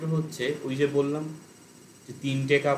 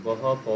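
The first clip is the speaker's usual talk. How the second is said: "গহ প" said in separate pieces, left hanging; split syllables. Shown as a demonstration. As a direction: break up "গহ প" for the learners. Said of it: "split করে করে বলতে পারো". ("গহ প" স্প্লিট করে করে)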